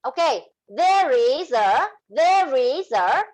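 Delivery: choppy, word-by-word; halting unlinked speech; no linking. Shown as a demonstration. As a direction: break each word apart, slow. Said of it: "when you don't have link".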